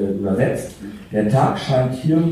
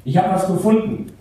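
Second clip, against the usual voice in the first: excited shout, raised high; 7 semitones higher than usual. Acted. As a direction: call out a big find. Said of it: "bis Kevin schrie". (aufgeregt rufend)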